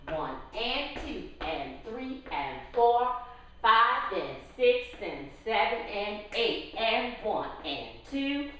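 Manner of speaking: calling dance counts in rhythm; counting out the beats. Shown as a demonstration. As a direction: count the steps out to the music. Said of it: "I'm gonna count it out for you".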